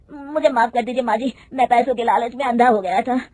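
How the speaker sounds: mild, understated begging; pleading. Acted. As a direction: beg for forgiveness, lightly played. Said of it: "गिड़गिड़ाते हुए कहता है".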